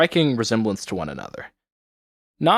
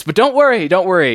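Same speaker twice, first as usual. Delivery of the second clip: hurried reassurance; 7 semitones higher, 7 dB louder than usual. Acted. Hurriedly reassuring a child gone quiet.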